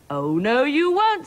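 emphatic refusal. Acted. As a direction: forbid it firmly, climbing high. Queen forbids hole in ceiling.

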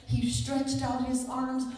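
forceful, emphatic sermon climax; impassioned preaching. Real, not acted. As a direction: drive the message home to the congregation.

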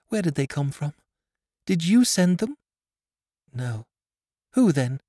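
put-on high, urgent girl's questions; anxious blind girl. A narrator's reading. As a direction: press for the answer she fears. Blind girl questions her friend.

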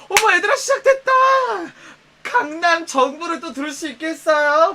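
high, loud mock thrill; overdone excitement. Friend teasing a bragger with over-the-top glee. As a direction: ham up the thrill, hit 시작됐다. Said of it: "더 오버를".

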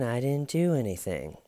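high-pitched imitation of the suspect; lightly whiny mock denial; mock protest. Mimics suspect protesting his innocence.

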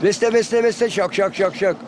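lifted opening dropping into steady şak beats; bird song example. Shown as a demonstration. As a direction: chant it like a finch. (saka ötüşü taklidi)

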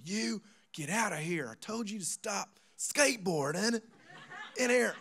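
put-on high, angry country-accent pastor. Mad pastor ordering skateboarders out, angry country accent. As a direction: scold in a mock country accent. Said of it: "he just country accent".

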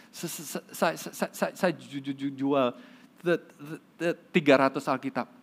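acted stutter, sticking on each word; gagap. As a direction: imitate a stammerer struggling to report. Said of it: "orang gagap ini bilang". (menirukan orang gagap melapor)

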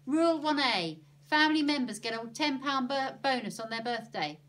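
emphatic rule-reading; declaring a rule. A narrator's reading. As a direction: read it out firmly like a decree. Annie announces a made-up rule.

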